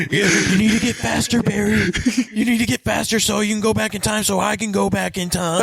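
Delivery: high put-on villain voice, scheming; mock villain voice. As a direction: wheedle Barry in a high mock voice. Voicing Reverse Flash to Barry.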